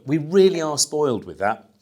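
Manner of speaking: usual speaking voice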